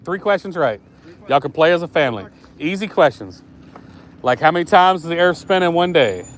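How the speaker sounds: upbeat host pitching a prize; game show host. Pretend. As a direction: hype it like a TV quiz host.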